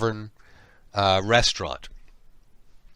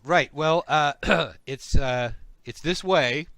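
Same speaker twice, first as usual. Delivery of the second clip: slow slimy snail voice; 3 semitones higher, 4 dB louder than usual. Acted. GM voices the slug creature.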